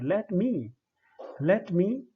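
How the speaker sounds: light "Let", stressed "me". Shown as a demonstration. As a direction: lean on "me" after an unstressed "Let". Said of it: "दूसरी पे जोर पड़ता है".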